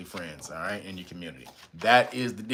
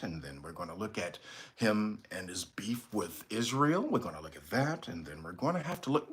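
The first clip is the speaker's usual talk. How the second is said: mock dull anchor, softer; boring news voice; 3 semitones lower, 6 dB quieter than usual. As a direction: drone through the headlines like a boring anchor. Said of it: "That's the most boring goddamn news of all time".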